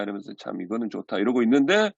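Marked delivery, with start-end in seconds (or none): 0.4-1.2 soft, low self-talk; relieved contentment. Retold or imitated. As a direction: act out quiet relief, dropped low. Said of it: "좋아가지고". (낮고 조용하게 안도하는 혼잣말)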